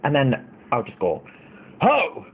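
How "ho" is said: sudden mock-deep holler. Prank to make men ahead stare at friends, mock deep voice. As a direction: call out in a jokey put-on deep voice. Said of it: "in a very deep voice".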